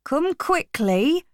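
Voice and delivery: high, drawn-out urgent call; urgent alarm. A narrator's reading. Benjamin calls the others to the lorry, urgent alarm. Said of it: "ran to tell the others".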